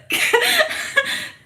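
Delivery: high cackling laugh. Real, not acted. Joking with the chat, high loud laugh. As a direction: burst out laughing.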